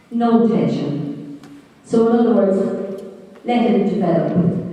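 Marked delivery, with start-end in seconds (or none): 0.1-1.4 no tension drawn out slowly and softly; calm, unhurried stress on no tension; slow soft emphasis. Shown as a demonstration. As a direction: let no tension sink in slowly. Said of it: "third part of this triad is".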